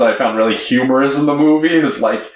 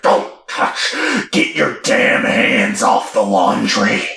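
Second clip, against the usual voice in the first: aggressive dad; 3 semitones lower than usual. Retold or imitated. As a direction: imitate a dad's harsh warning. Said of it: "really aggressive".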